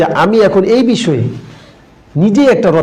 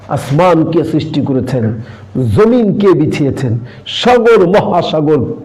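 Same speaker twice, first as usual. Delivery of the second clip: oratorical recitation. Shown as a demonstration. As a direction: recite it like a grand speech. (ধীর, গম্ভীর বক্তৃতার ভঙ্গি)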